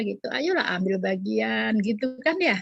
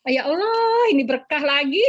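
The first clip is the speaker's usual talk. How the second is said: mock resignation; 4 semitones higher than usual. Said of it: "tapi kesel".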